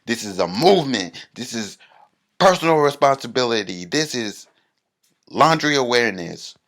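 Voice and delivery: impassioned protest. Retold or imitated. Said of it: "And I say".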